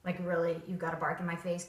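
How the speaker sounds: flat are you kidding me; quietly unimpressed at the barking dog; deadpan disbelief. Retold or imitated. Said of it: "I'm just like".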